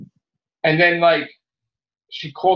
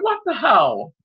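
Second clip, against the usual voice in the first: higher, shouted disbelief; mock outraged shout; 8 semitones higher, slower than usual. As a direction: yell it at the TV in outrage. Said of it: "I was fucking angry".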